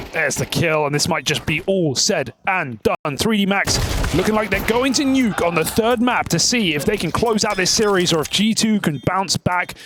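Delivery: esports caster's map wrap-up; live play-by-play. Acted. Caster closes out the map for viewers, play-by-play. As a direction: carry viewers through the result and sign off.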